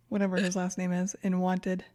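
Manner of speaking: ordinary delivery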